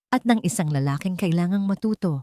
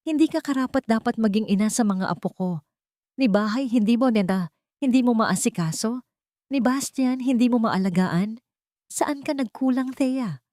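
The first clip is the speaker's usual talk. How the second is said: put-on higher-pitched scolding old woman; angry grandmother; 6 semitones higher than usual. A narrator's reading. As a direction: accuse her with burning anger. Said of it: "nagniningas sa galit".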